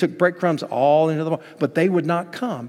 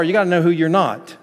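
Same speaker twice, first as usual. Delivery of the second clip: louder restatement; 2 semitones higher, 5 dB louder than usual. Shown as a demonstration. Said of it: "It's not enough to just to know who you are".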